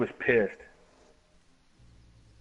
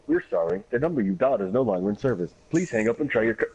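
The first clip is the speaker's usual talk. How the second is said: mock phone company recording; recorded operator message; 2 semitones lower, faster than usual. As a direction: sound like the disconnected-number recording. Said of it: "I answer the phone".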